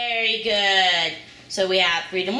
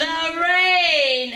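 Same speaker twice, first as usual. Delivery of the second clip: excited confirmation; 8 semitones higher, 5 dB louder than usual. Real, not acted. Mother confirming answer enthusiastically.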